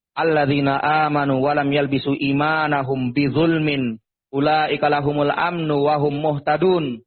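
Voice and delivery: slow, measured Arabic recitation; Quran recitation. Acted. Preacher quoting Surah Al-An'am to listeners, measured recitation. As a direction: recite the verse slowly, drawing out the syllables.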